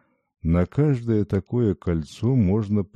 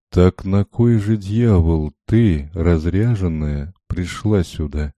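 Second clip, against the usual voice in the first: furious yell; 6 dB louder than usual. Acted. Frightening man screams at the princess, furious. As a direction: roar her out of the house. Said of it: "завопил вдруг и затопал ногами".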